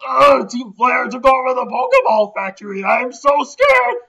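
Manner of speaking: mock scared NPC. Factory worker complaining about Team Flare, high whining. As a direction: whine like a helpless worker.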